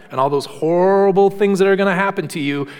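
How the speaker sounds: a light parody of a drug-ad salesman; breezy pitchman brushing off side effects; mock ad voice. Preacher mocking prescription ad disclaimers, light salesman voice. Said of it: "like at the end of all those prescription ads".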